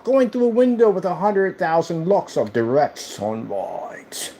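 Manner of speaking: whisper. Real, not acted. Whispered after excited build.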